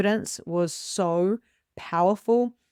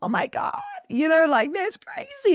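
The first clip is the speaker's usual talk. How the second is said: amazed; 11 semitones higher, 3 dB louder than usual. Retold or imitated. Retold amazement at the sign.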